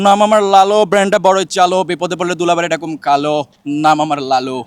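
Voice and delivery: lightly voiced film character reciting a rhyme; hint of a film-dialogue impression; Misha Sawdagar. Shown as a demonstration. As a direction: chant the catchphrase like a movie actor. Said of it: "যদি মিশা সওদাগর শুনতে চান তাহলে বলতে পারি".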